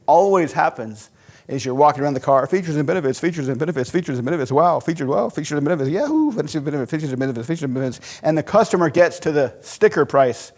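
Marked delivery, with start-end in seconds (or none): 2.5-8.2 sing-song, bored pitch with fake cheer; mock sales drone. Salesman mocking his own rote pitch, sing-song drone. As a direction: parody a rote pitch, chirpy then fading.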